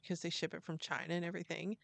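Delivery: fast whisper, tossed off; quick whispered aside. Real, not acted. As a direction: rattle it off under your breath. Quick aside while explaining.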